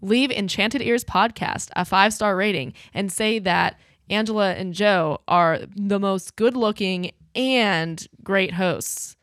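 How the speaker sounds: voice command. Pretend. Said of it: "Just say Google".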